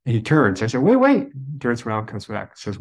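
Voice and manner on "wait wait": much higher and louder call. Retold or imitated. Calling back the departing priest: sharp high call. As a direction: stop him before he leaves.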